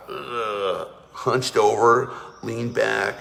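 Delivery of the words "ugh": a heavy slumped ugh; depressed groan. Shown as a demonstration. Teacher shows depressed posture with a slumped groan. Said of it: "what posture do depressed people have".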